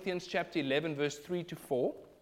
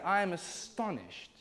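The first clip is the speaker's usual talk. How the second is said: slow, building to a louder I can't believe; the apostle rebuking deserters, slow then louder; building indignation; 5 semitones higher, 5 dB louder, slower than usual. Retold or imitated. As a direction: start measured, rise to a forceful outcry. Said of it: "He's saying".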